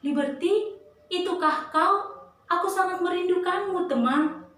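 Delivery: high, delighted greeting; cheerful. A narrator's reading. Thompson greets his lost friend Liberty, high and cheerful. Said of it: "dengan ceria berkata kepada Liberty".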